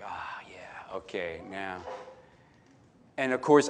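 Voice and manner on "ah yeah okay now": whispered, much softer sigh of relief; soft whispered contentment after the screen goes dark; relieved whisper. Retold or imitated. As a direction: breathe it out like finally settling.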